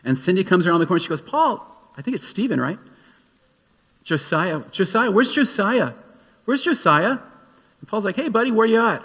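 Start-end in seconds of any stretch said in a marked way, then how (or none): 1.2-7.2 mother calling out for her lost son, pitch jumping up; frantic call for the missing boy; panicked mother. Retold or imitated. Wife searching for her missing toddler, panicked calling. 8.2-9.0 father calling out loud and high for his son. Retold or imitated. Father searching for his toddler, calling out.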